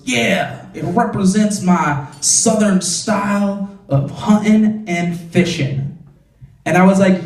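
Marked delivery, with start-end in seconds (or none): 0.0-6.0 slow, drawn-out put-on voice for her Southern pride; mock Southern girl. Girl with Confederate phone case explaining herself, slow mock voice. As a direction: stretch "hunting and fishing" proudly. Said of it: "And she goes".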